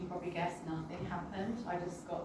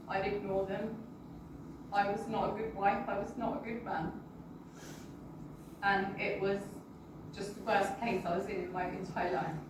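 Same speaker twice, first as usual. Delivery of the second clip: choked up; 4 dB quieter than usual. Real, not acted. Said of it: "Sorry, bear with me one second".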